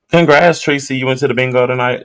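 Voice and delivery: high, loud, cheering; excited congrats. Real, not acted. Streamer cheers Tracy's bingo win, high and excited. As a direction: cheer her win with real delight.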